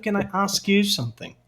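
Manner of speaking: Can I ask you something in a light British accent, open A. Shown as a demonstration. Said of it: "Ou, sotaque britânico".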